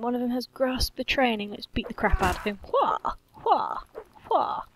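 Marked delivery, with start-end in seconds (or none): 2.6-4.6 sharp high grunts of effort; short high attack shouts; battle cry. Real, not acted. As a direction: yell as you swing. Battle cries while fighting villagers.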